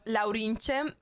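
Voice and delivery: "Laurinche" said slowly and carefully, every syllable clear; name pronounced. Shown as a demonstration. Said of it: "my Twitch name is pronounced".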